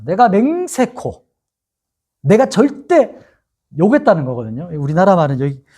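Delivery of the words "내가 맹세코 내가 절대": high, drawn-out mock oath; emphatic swearing. Peter swearing he does not know Jesus, emphatic oath. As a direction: swear it firmly, pitched up. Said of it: "맹세까지 하면서".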